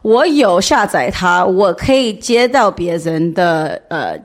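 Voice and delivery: non-native Mandarin, halting and careful; foreigner speaking mandarin. Real, not acted. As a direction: speak Mandarin as a learner, searching for words. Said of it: "我中文不太好".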